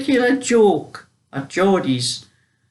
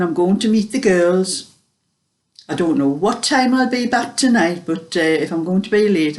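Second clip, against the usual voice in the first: Queen's English; 3 semitones higher than usual. Retold or imitated. Daughter corrected by her mother, redoing it in Queen's English. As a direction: put on proper Queen's English for mum. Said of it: "the Queen's English".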